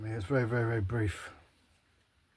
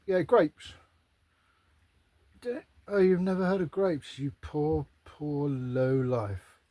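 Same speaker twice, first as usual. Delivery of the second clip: snooty Roman; 3 semitones higher, slower than usual. Retold or imitated. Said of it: "just see 'em all like".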